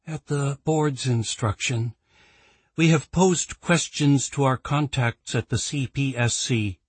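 brief the board wearily; weary executive. Acted. Claire reports to the board.

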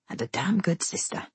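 low, soft aside at the ear; Botkin. A narrator's reading. Man praises a good sister near her ear, low voice. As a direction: finish the praise softly and confidentially. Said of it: "low near my ear".

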